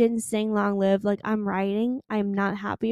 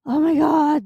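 excited squeal; 5 semitones higher, 8 dB louder than usual. Real, not acted. Fangirl gushing over tour.

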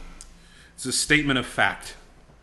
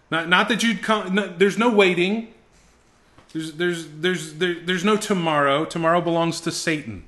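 urgent fervor; 4 semitones higher than usual. Shown as a demonstration. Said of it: "it's passion".

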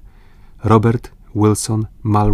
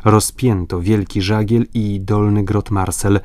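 ordinary delivery

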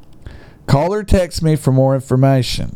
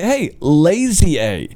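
mock grumpy seller; 8 semitones higher than usual. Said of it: "It's like".

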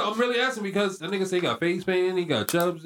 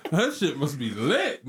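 laughing; slower than usual. Real, not acted. Laughing at the name.

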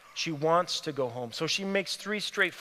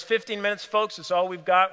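raised, higher announcing voice; bus driver announcing; 3 semitones higher, 5 dB louder than usual. Acted. Bus driver to passengers at the station, announcing. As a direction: call it out to the passengers.

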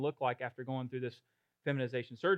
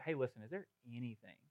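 gentle invitation; 3 semitones lower, 3 dB quieter, faster than usual. Retold or imitated. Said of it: "just be like".

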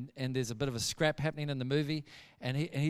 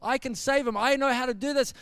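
higher-pitched, urgent boasting; worked-up insistence; 6 semitones higher than usual. Retold or imitated. Gary running in with a stick to save him, worked up. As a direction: insist breathlessly that only you can help. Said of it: "He's gone hysterical".

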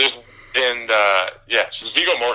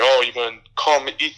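mock Italian; 3 semitones higher than usual. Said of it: "He's like".

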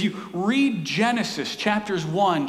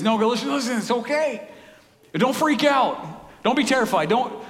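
reassuring angel; 5 semitones higher than usual. Acted. Angel voiced calming shepherds.

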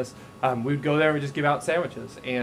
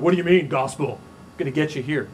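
self-righteous gotcha; 5 dB louder than usual. Retold or imitated. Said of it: "like a self-righteous judgment".

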